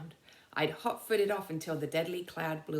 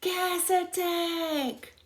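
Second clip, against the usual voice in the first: loud high alarm shout; holler; 13 semitones higher, 5 dB louder, much slower than usual. Acted. A soldier hollers to warn the trench of gas, loud. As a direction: holler the warning across the trench. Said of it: "the soldier hollered".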